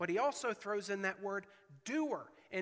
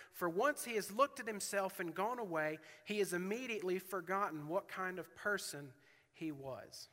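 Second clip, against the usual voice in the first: raised, measured scripture reading; preacher reading James aloud; 2 semitones higher than usual. Acted. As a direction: read the verses with weight.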